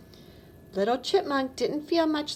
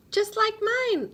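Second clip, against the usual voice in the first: put-on high, slow child's voice; lightly voiced little raccoon; 9 semitones higher than usual. A narrator's reading. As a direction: proudly show off the gap. Raccoon child replies in story.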